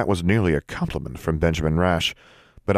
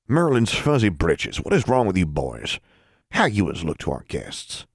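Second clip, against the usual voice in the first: scolding voice; 3 semitones higher than usual. Acted. Forbearance scolding brothers.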